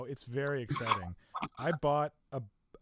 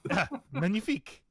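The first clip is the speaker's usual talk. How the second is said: put-on French accent; 4 dB louder than usual. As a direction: savour every word like a French connoisseur. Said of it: "my weird French accents".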